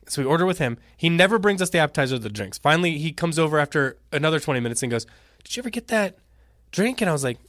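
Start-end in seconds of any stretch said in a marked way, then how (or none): 5.4-7.0 airy, high mock-server voice; mimicking the server. Forgetful server asking about the missing drink, high mock voice. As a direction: play the clueless waiter asking brightly.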